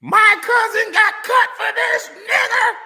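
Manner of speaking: a hammed-up redneck yelling over a quarterback; mock racist fan rant. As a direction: rant like an outraged good old boy.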